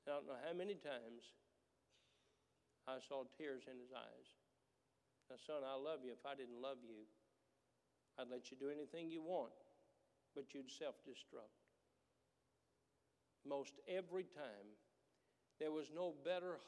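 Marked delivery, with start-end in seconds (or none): 5.3-11.5 a hushed, tender father to his son; retold father speaking softly to his son after punishing him. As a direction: soften right down like a dad consoling his boy. Father's tender talk after discipline.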